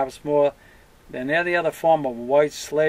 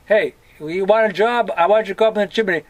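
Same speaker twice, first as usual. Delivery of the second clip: boss voice; 5 semitones higher, 5 dB louder, faster than usual. Pretend. Acted boss offering chimney job.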